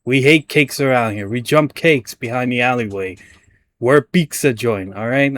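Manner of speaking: a hint of a mock Italian pizza guy; jokey Italian pizzeria owner; Italian accent. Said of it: "I'm trying to do Italian".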